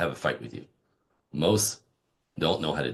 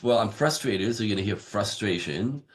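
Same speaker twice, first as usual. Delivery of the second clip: raised frustrated voice; 3 semitones higher than usual. Shown as a demonstration. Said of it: "raising my voice like this".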